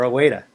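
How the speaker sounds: "waiter" ending in a plain uh with no r; Boston waiter. Shown as a demonstration. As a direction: drop the r on "waiter", Boston style. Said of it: "normally I would say".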